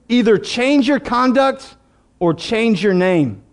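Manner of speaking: slow, deliberate commander's warning; measured, weighty order; solemn ultimatum. Acted. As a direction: lay out each choice slowly, falling at the end.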